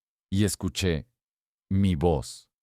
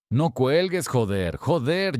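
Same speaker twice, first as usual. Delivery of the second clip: a touch of angry cursing, higher; angry Raúl; 6 semitones higher, slower than usual. Retold or imitated. Scammer slipping into Raúl's angry tone. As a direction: mimic the cousin snapping when he's annoyed. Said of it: "esa entonación era de Raúl cuando se enfada".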